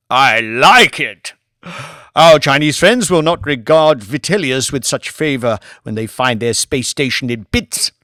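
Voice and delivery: loud, delighted aristocrat with a bite; gleeful old lord. Acted. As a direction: relish the plan like a villain. Lord Martin gleeful scheming.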